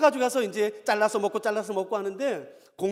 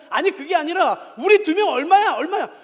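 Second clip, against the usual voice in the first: raised, higher-pitched insistence; old man hollering at staff; retold shouting; 6 semitones higher, 7 dB louder than usual. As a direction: cut in loudly, demanding the price. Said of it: "하도 소리 지르니까".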